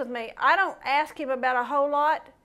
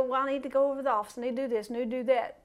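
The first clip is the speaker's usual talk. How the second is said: a fast, quieter mock fretting murmur; fretting worrier; 2 semitones lower, 6 dB quieter, much faster than usual. Preacher imitating a fretting man, rushed and softer. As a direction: rattle off worries like a fretful believer. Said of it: "He's fretting about".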